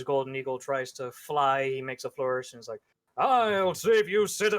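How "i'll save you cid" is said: loud, high, drawn-out rescue call; heroic cry. Acted. Superhero flying in too late to save someone, heroic cry. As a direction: call out with a hammed-up hero's flourish. Late hero calls out with flourish.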